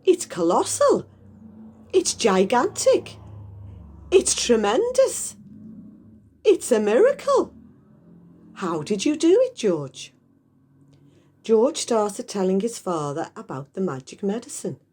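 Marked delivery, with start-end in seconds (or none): 0.0-10.1 high, loud, rising exclamations; excited shouting. Acted. Mister Cranky dancing around shouting at the hen, high and loud. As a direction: gush louder with each word. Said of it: "Mister Cranky shouted".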